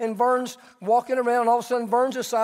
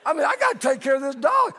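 mock panic; 4 semitones higher than usual. Panicked thought of losing dog.

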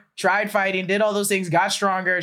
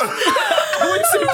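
Bane voice; 3 dB louder, slower than usual. Pretend. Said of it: "that's the funniest thing".

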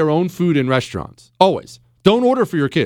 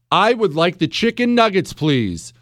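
speaking up. Retold or imitated. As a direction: say it out clearly, like a child who was coached. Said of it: "Speak up".

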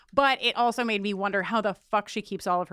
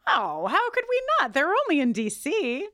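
excited; 7 semitones higher than usual. Real, not acted. Excited high exclamation.

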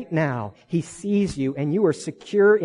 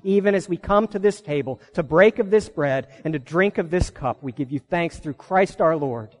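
liturgical prayer. Real, not acted. Liturgical thanksgiving.

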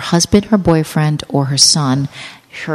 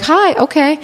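mock flirty greeting; 9 semitones higher, slower than usual. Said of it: "they were like".

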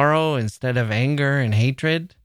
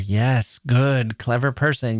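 sarcastic. Real, not acted. Sarcastic praise to poet.

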